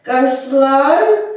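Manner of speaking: usual speaking voice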